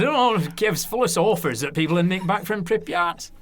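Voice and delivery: put-on Lancashire accent. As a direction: finish the tale as a Lancashire man. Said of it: "So it's my Lancashire accent there".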